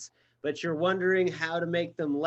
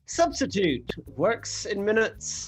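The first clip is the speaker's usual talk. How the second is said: bad Scottish accent; 2 semitones higher than usual. Co-host reads the sponsor ad in bad Scottish accent. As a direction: push a clumsy Scottish brogue for laughs. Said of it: "really shitty Scottish accent I just did".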